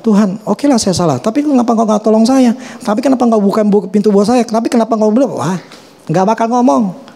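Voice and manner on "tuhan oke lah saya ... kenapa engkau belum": higher, pushy questioning of God; complaining prayer. Retold or imitated. Believer voiced by preacher, arguing with God, higher. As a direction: demand answers like a sulky believer. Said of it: "kalau kita bilang".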